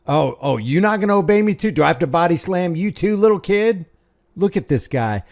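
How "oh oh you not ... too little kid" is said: mocking cop. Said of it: "Hey, quit crying".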